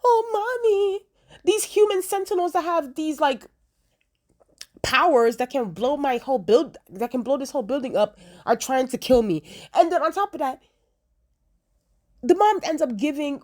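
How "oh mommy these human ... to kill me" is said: mock-sob it like a spoiled kid; whiny crying son. Roberto whining to his mom about sentinels. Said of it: "It sounded so whiny".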